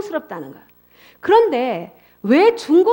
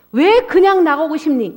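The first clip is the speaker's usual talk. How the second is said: parent asking; 4 semitones higher, 5 dB louder than usual. Retold or imitated. Parent questioning a runaway child.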